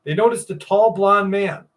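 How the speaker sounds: measured read-aloud of an eerie account; story narration. A narrator's reading. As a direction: read it out like a true mystery report. Reads a creepy story aloud.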